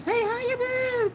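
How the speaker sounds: high, slow, cheery regular's welcome; Cheers-style greeting. Retold or imitated. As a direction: sing out the hello like a bartender greeting a regular. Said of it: "It's like an episode of Cheers".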